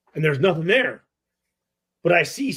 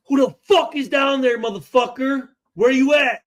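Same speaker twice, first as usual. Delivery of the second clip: retold shout; 7 semitones higher than usual. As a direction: shout into the dark basement at the intruder. Shouting into dark basement.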